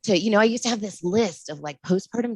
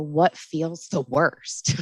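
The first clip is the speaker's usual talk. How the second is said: slow gentle question; much slower than usual. Retold or imitated. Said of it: "I just kinda go in and say".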